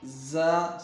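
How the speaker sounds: زا with a whistling buzz; whistling sound. Shown as a demonstration. Teacher models whistle letter, زا buzzed and held. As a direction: hold زا with a sharp whistling Z. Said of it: "سیٹی کی طرح آواز نکالنی ہے".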